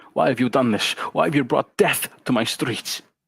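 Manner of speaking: angry, growling voice. The king demands answers from the witch on the parapet, growling king. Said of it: "The king growled".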